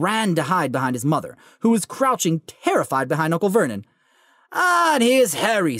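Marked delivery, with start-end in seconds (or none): 4.5-5.8 Hagrid voice. Acted. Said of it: "said the giant".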